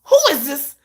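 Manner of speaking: high, loud, laughing cry; half-laughing, half-crying squeal; laughing shock. Retold or imitated. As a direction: fan losing it, laughing and shrieking.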